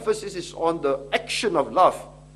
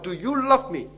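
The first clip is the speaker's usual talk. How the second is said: voicing the Lord; 6 semitones higher, 6 dB louder than usual. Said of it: "The Lord says".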